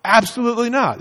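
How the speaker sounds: a rising, outraged no; indignant refusal. Pretend. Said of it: "You would say".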